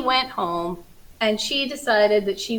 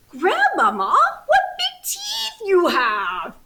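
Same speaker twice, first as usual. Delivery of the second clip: high, slow, laughing cry; half laugh, half shriek at the teeth; little girl laughing as she cries out; laughing alarm; 11 semitones higher, 4 dB louder, slower than usual. Acted. Red sees the teeth.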